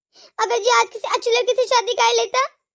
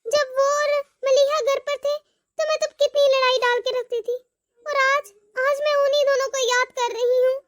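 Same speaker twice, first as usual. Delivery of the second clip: regretful monologue; 2 semitones higher than usual. Acted. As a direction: speak to yourself, full of remorse. Long remorseful monologue by mother.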